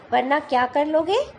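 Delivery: defiant challenge. Acted. Teacher voicing the cocky fly taunting the lion, defiant. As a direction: dare the lion to come at her.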